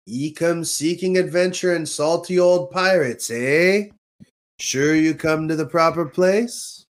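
lightly voiced pirate ride narrator. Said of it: "this little speech you hear on the ride".

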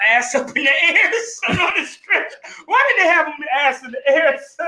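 high-pitched, incredulous laughing questions; cracking up, voice shooting up; laughing hard. Real, not acted. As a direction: barely get it out through laughter. Cracking up at the story.

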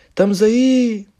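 loud, high shouted reply. Retold or imitated. Answering the comedian from the crowd, shouting loudly. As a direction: yell it back to the stage. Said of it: "Pá, bué da alto".

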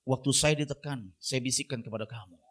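low, hushed, voiced confiding; imitated whisper. Preacher modelling a confession to a troubled listener, mock whisper. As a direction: lean in and share a secret, dropping well down. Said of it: "Akhirnya saudara bisik lagi".

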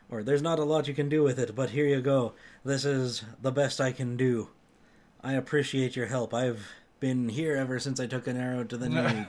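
lightly voiced Skyrim Jarl. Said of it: "I tried to use the, uh, Jarl voice for the characters".

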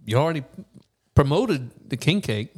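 talking through a mouthful; words round a bite of food; mouth full. Real, not acted. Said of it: "Sorry, I'm eating with a mouthful".

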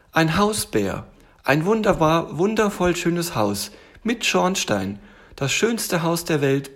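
high, slow, marvelling little tiger; delighted little tiger. Acted. Tiger shows bear the wonderful house, enraptured. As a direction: savour each word in a high tiger voice.

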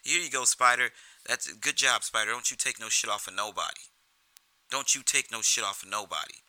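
loud, mocking cheer for the kid; mock Jimmy cheering. Jimmy cheering Spider on to rile Tommy, loud mock cheer. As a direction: hype Spider up to needle Tommy. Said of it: "Jimmy kinda starts breaking Tommy's balls".

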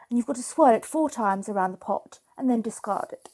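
slightly posh British delivery of instructions; lightly put-on posh English voice; posh accent. Real, not acted. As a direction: lay out the tea rules in a posh British accent. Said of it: "I don't know why I'm talking posh".

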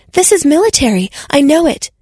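a touch of excited insistence; insisting. Acted. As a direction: dig in, sure of it. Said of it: "she insisted".

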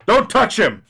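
sudden high warning shout; sharp shout. Acted. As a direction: yell it out to stop him. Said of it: "My head snapped round".

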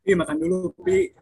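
high, loud mothering call; mock nagging mother. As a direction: nag like a fussy mom. Calling out to friend, teasing. (suara ibu cerewet melengking)

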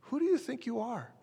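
high, sneering put-down; scornful challenge. Retold or imitated. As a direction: mimic the crowd's indignant sneer. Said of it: "they asked this question of Jesus".

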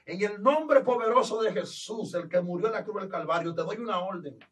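loud, forceful exorcist command; preacher casting out a demon; commanding rebuke. Retold or imitated. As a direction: order the demon out with full authority. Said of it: "le dije".

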